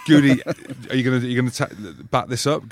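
fast, loud, laughing taunt; mock challenge through laughter; laughing mock question. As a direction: tease a mate while cracking up. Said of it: "Goody's like".

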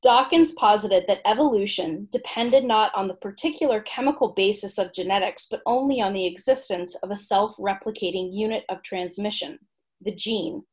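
measured, articulate read-aloud of a humorous essay; written entry reading. Acted. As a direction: present it like a comic encyclopedia entry.

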